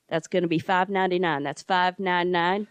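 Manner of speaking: car salesman pitch. Retold or imitated. Funeral home guy quoting cremation like a car dealer. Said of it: "selling me a car on T V".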